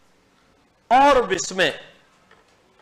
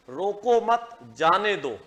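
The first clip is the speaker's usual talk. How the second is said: "रोको मत" together, then "जाने दो"; group मत with रोको, then drop on जाने दो; pause after मत. Shown as a demonstration. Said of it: "निर्भर करता है अल्प विराम पे".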